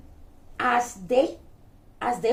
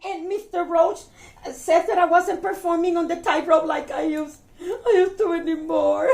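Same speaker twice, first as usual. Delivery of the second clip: higher, sobby complaint; mock tearful; 4 semitones higher than usual. Bug girl tells of her tightrope failure, mock crying. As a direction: pretend to blubber, breaking into sobs at the end. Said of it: "I'm crying".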